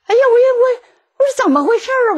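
words catch in a sudden cry; choked-up crying. Real, not acted. Overwhelmed when her name was on the raise list, crying. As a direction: voice breaking high into a sob.

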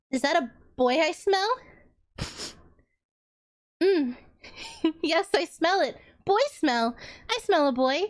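high, giddy acted girl voice; hammed-up excited reading of a silly script. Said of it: "I'm gonna try my best to voice act it".

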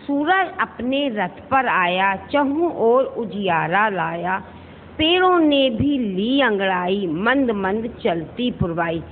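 slow, measured reading of the poem; rhythmic children's poem reading; poem recitation. Shown as a demonstration. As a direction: recite the lines for the class to follow. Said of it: "मैंने आपको पढ़ के भी बताया है".

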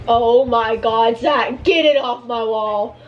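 startled panicked cry; screaming at a spider. Real, not acted. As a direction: panic at a bug on the wall.

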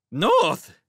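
loud, high, incredulous question; dismayed outburst; startled. Acted. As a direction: echo it back in alarm. Startled at being sent north.

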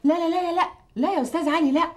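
high-pitched, rapid-fire protest; emphatic refusal. Acted. Woman turning down the lawyer's offer, emphatic high refusal. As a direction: refuse outright, pitch jumping well up.

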